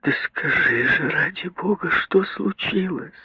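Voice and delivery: mother begging plaintively to be told; plaintive moan. A narrator's reading. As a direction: moan it out pitifully. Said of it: "жалобно простонала миссис Броуди".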